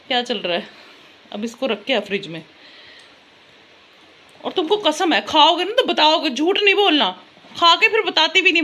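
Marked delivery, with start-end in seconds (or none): 4.4-8.6 high loud mock-stern warning; loud high telling-off; scolding. Real, not acted. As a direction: make her swear, loudly. Scolding daughter about eating.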